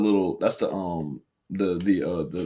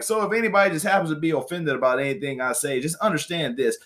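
higher-pitched imitation of a brash host; unapologetic rant; 5 semitones higher than usual. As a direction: imitate someone warning off the easily offended. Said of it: "he'd be like".

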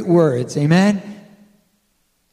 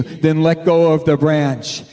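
God's voice; 2 semitones lower, slower than usual. Retold or imitated. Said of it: "we know it's God's voice".

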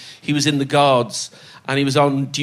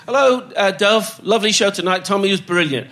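voicing Dennis; 6 semitones higher than usual.

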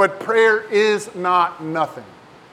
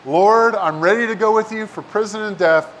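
eager Peter; 3 dB louder than usual. Retold or imitated. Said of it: "Peter said to him".

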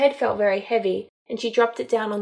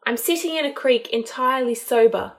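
sarcastic; 3 semitones higher, 4 dB louder than usual. Acted. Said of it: "she said with an eye roll".

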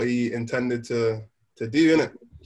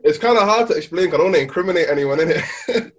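laughing fast; 4 semitones higher, 4 dB louder, faster than usual. Real, not acted. Rushed, laughing.

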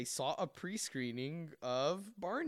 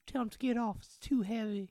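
put-on southern boy; 9 semitones higher, 4 dB louder than usual. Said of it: "they both have southern accents".

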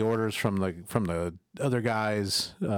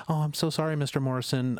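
higher, timid apology; apologetic waitress; 6 semitones higher than usual. Retold or imitated. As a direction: sound small and sorry. Waitress apologizing, voiced high.

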